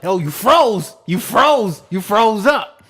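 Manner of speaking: LA thug voice. Retold or imitated. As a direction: play the hard LA gangster. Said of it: "he got the accent".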